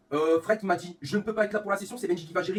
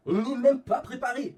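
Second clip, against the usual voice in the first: "même" stretched, higher and louder; exasperated repeat; 9 semitones higher, 7 dB louder, slower than usual. Real, not acted. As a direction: drag out "même" in disbelief.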